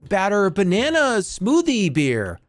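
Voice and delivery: high, slow, gushing snob voice; slow, high mock delight; mock fancy customer. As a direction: swoon over the beer like a pretentious hipster. Mocking a fancy craft beer customer.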